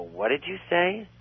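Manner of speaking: high, slow disbelief; incredulous. Retold or imitated. John stunned by Andy's hex threat, high and slow. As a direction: stretch it out in shock.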